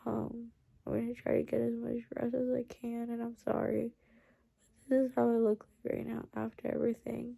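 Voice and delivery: drowsy, sleepy voice; barely awake, fading; falling asleep. Real, not acted. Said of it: "I'm, like, literally falling asleep".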